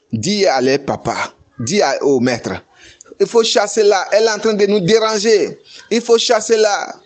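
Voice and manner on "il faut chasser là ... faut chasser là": impatient complaint. Retold or imitated. Children complain to the master.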